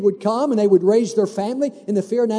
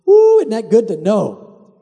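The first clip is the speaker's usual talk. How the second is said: excited; 6 dB louder, slower than usual. Real, not acted. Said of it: "preacher exults".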